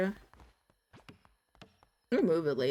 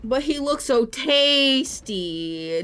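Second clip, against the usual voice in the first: hungry monster voice; 5 semitones higher, 6 dB louder, much slower than usual. Pretend. Voicing the hungry follower.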